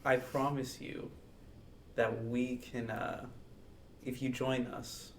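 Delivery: a soft, coaxing plea spoken softly; gentle persuasion. Acted. Player sweet-talking the weeping barista, softly coaxing. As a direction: ease the words out gently, like soothing a frightened creature. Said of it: "softly, just, like, gently".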